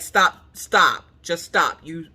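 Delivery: firm, separate stops at normal pitch; emphatic self-command, word by word; stern inner voice. Retold or imitated. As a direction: scold yourself in your head. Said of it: "In my brain, I'm like".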